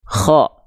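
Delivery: "Kho" with a short rasp on the kh; kh without overdone snore. Shown as a demonstration. Teacher correcting the snoring version, short firm kh. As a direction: keep the snore out, just a brief scrape in "Kho".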